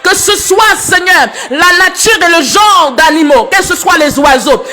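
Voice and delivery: impassioned praise to God, voice pitched well up; fervent prayer. Real, not acted. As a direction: pray aloud with mounting fervour, pitch climbing high.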